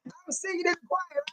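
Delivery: whispered aside, quick and breathy; quick secretive whisper. Real, not acted. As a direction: drop to a hushed whisper.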